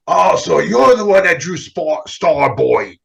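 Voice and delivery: put-on a light take on Stan Lee's slow, raspy old New York voice; lightly voiced, slowed Stan Lee. To a young artist, lightly imitating an old comics legend. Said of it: "I gotta do the Stan Lee voice".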